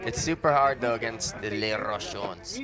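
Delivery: put-on French accent. Commentator jokingly naming the French team, light French accent. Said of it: "But that was my French accent".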